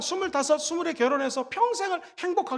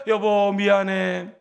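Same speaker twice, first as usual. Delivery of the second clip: gentle apology; 6 semitones lower, much slower than usual. Shown as a demonstration. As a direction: say it slowly and gently, as a model line. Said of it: "한번 저를 따라해볼까요?".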